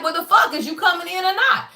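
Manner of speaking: mock exasperation at someone wavering; annoyed. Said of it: "this shit just annoyed me".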